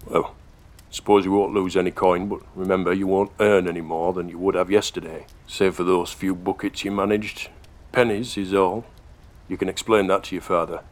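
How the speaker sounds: put-on brisk, firm older workman; gruff foreman. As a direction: lay down the terms, brisk and stern. Foreman answers the boy.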